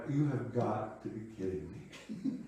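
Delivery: laughing through annoyed disbelief; half-laughing, can't believe it; amused exasperation, laugh breaking in. Retold or imitated. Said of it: "I was sort of annoyed, like".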